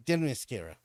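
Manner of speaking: Themyscira said with the stress on the wrong syllable; mock the mispronounced Themyscira, leaning on the wrong syllable. Shown as a demonstration. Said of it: "The emphasis on the wrong syllable".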